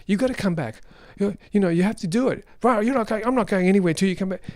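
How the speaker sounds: annoying nagging. Retold or imitated. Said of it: "an annoying tone of voice".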